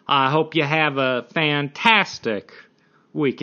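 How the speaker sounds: half-hearted attempt at an Irish accent; bad Irish accent. Shown as a demonstration. Podcaster signing off for the week, bad Irish accent. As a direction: try an Irish lilt and fumble it. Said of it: "supposed to be an Irish accent".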